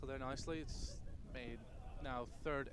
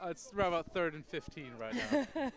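laughing; 3 semitones higher than usual. Real, not acted. Commentator giggling through the score.

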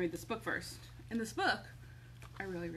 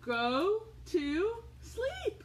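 slow, higher, coaxing go to sleep; drawn-out sleepy order; 11 semitones higher, 3 dB louder, much slower than usual. Acted. Parent coaxing robots to sleep, slow and drawn out. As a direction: stretch it out to lull them.

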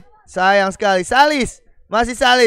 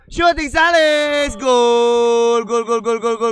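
goal call. Real, not acted. Commentator calls a goal.

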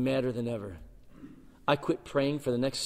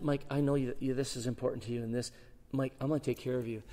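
softer, gentle promise; tender reassurance; 7 dB quieter than usual. Retold or imitated. God reassuring young Mike, tender. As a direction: comfort him.

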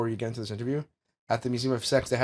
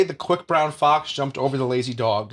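demo sentence; 3 dB louder, slower than usual. Shown as a demonstration.

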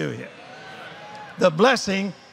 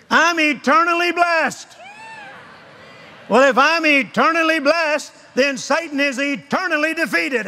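preaching shout; 5 semitones higher than usual. Real, not acted. Preaching climax, shouted claims.

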